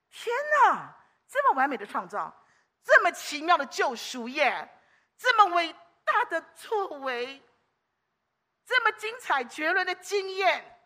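slow, lifted praise full of wonder; demo of awe. Shown as a demonstration. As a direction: show them how to marvel out loud. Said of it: "赞叹、感恩地来说". (示范赞叹的语气)

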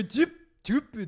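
TUBE with a short, tight vowel like 'tyub'; imitated mispronunciation. Host questioning co-host's odd sound, TUBE mispronounced short. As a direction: say TUBE as short 'chub', mimicking the mistake. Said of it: "那你为什么会有一个".

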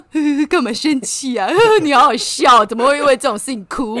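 chuckling, teasing the angry wife; imitating the husband's giggly teasing; laughing while teasing. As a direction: laugh through the words, amused. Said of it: "而且他还边笑哦".

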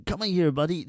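lightly voiced chummy guard; a hint of an easygoing American officer; American buddy tone. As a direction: call them over like a pal. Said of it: "就是用那种语气跟你讲话".

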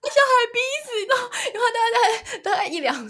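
high squeaky laughing voice; real tearful laughter; crying laughing. Real, not acted. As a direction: talk through tears of laughter. Laughing to tears.

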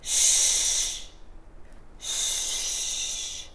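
soft unvoiced shh; shushing. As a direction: hush them gently. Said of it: "little girl说什么".

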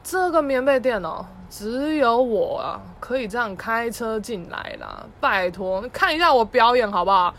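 loud, slow showing-off; boasting dad. Retold or imitated. Dad bragging to his kid about driving in, loud boast. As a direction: puff up and crow about your driving. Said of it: "他说".

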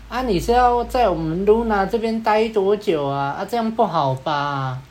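mildly confrontational, slow drawn-out challenge; 挑戦的. Retold or imitated. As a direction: imitate a wannabe tough guy, stretching the words. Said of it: "一看就知道是要来挑战嘛".

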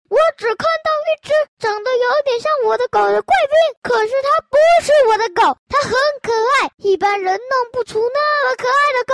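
high, loud and fast furious outburst; angry roar. Acted. Furious owner shouting at the groomer, high and fast. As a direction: owner refusing to believe it is his dog, shouting high. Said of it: "气得大吼".

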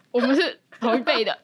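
words spoken through a laugh; laughing while talking. Real, not acted. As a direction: laugh as you say it. Laughing over the same generation.

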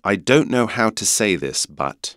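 British vowels in "know" and "but"; British accent. Shown as a demonstration. Teacher modelling the second sentence in a British accent. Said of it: "刚刚英国腔会变成but".

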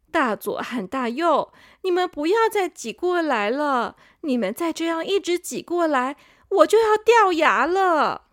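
mild whiny complaint rising to a plea; complaining big sister. Acted. Canine sister complains to the younger teeth, mild plea. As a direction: fret about being pushed out. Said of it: "犬齿姐姐也开始抱怨说".

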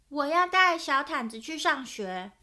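a child's mock demand; insistent child. Owen telling his parents he will take the blanket to school, insistent.

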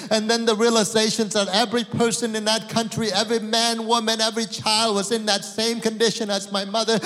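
building from plain to loud, high pleading; desperate prayer. Retold or imitated. Son praying for his mother, building to a loud, high plea. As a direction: cry out to God, rising.

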